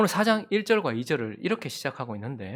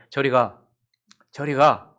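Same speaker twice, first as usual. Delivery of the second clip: loud, stern repeated "저리 가"; firm dismissal; 7 dB louder, slower than usual. Retold or imitated. Mom keeps sending the child off, loud and firm. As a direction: keep pushing the child away firmly. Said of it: "계속해서 단호하게".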